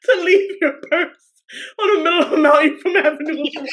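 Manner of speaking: laughing through the sentence; words tumbling out through real laughter; crying with laughter. Real, not acted. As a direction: try to carry on while cracking up. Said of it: "I'm crying".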